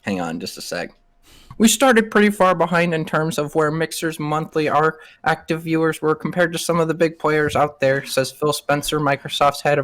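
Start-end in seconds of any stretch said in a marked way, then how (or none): 1.6-8.0 higher, lightly put-on Lucas voice; a hint of George Lucas reading; George Lucas impression. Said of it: "such a great impression of, uh, fucking George Lucas".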